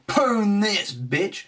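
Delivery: triumphant taunt. Real, not acted. Taunting the beaten opponent, high triumphant jeer. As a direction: crow it over the win.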